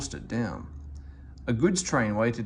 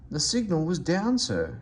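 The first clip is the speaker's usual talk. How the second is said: nervous; 5 semitones higher than usual. Acted. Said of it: "said Henry nervously".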